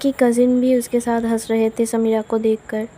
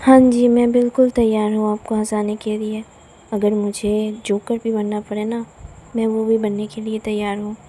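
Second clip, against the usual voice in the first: teasing. Acted. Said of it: "Avani को tease करते हुए कहती है".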